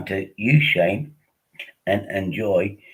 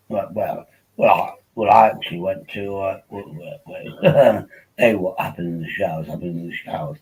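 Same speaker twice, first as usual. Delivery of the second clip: lightly voiced posh public-school type; mock upper-class ramble; a hint of a toff; posh schoolboy. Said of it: "So that's how, uh, Vincent speaks".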